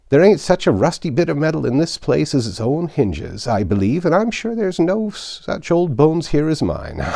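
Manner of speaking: put-on high, loud, creaky old man voice; old Joe, cackling old rascal. Old Joe greeting the thieves, high and gleeful. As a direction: wheeze it out like a gleeful old fence.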